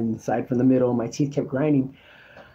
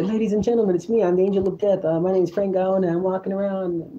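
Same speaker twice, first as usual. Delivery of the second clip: higher-pitched microphone announcement; announcer; 5 semitones higher than usual. Acted. Man announcing himself to a crowd by microphone, announcer voice. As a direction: address the crowd as a lightly played announcer. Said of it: "get a microphone and say".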